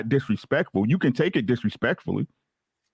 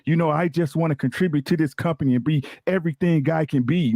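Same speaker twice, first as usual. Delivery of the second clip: customer service voice. Retold or imitated. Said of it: "putting on, you know, my customer service voice".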